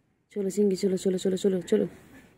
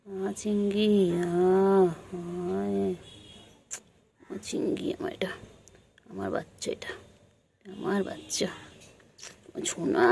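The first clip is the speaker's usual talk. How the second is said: soft whispered cuddle talk; hushed and tender; 2 semitones lower, 4 dB quieter than usual. Real, not acted. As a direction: whisper sweet nothings to the pet. Cuddling the pet softly.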